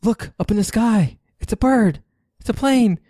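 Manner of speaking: high, excited announcer voice; Superman announcer. Acted. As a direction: hype it like the old Superman intro. Superman intro parody.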